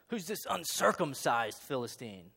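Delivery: Who's pushed out with a sneer; mock the Philistine, leaning on Who's; Who's said as a cocky challenge; trash talk. Shown as a demonstration. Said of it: "he's talking a little trash again".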